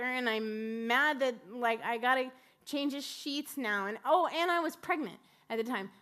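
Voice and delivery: venting, with a push on the grievances; mildly worked-up, fed-up complaint; retold frustration. Exhausted mother venting about night-time vomit, frustrated. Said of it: "I'm, I'm frustrated".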